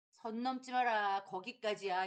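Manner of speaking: slow, firm warning; cold warning. Retold or imitated. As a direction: draw the line. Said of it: "이런 말투를 자주 쓰십니다". (선을 긋듯 느리고 단호하게)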